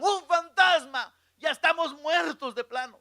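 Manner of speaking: high, loud cry of disciples; acted scream at a ghost; terrified shout. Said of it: "Y gritaron".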